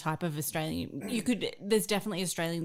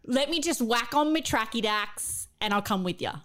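slightly higher-pitched Bogan Australian; Bogan accent; 4 semitones higher than usual. Shown as a demonstration. Reading a classic Bogan sentence to co-hosts, Bogan accent. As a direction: read it out in a broad Bogan accent. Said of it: "how to do a Bogan accent".

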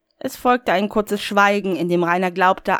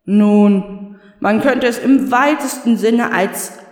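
hesitant; 2 semitones higher, 5 dB louder, slower than usual. Acted. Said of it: "meinte die Stimme zögerlich".

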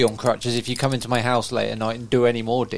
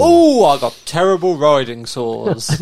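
posh cowboy; 6 dB louder, slower than usual. Pretend. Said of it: "We sound like the poshest cowboy".

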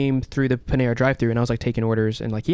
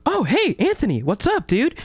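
much higher, breezy casual dude; imitating friendly celebrity; 12 semitones higher than usual. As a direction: toss it off like a chill skater. Celebrity greets him, voiced.

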